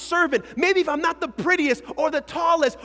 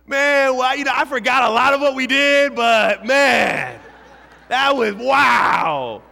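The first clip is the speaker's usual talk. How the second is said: louder and slower, lost for words; mock dazed partier; 7 dB louder, slower than usual. Pastor mocks a partier who forgot the night, dazed and loud. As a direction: play a burned-out partier groping for memories.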